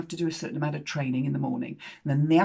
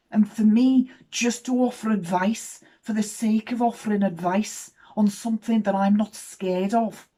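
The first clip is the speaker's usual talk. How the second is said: retold young lady, higher and earnest; heartfelt apology; 5 semitones higher, 3 dB louder than usual. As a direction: plead gently for forgiveness, weighing each phrase. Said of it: "feeling it in my heart".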